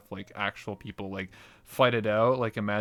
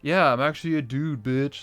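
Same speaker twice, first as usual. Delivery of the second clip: mock smug taunt; smug reveal; 3 semitones higher, 4 dB louder than usual. Guest taunting partner on stage, mock taunt.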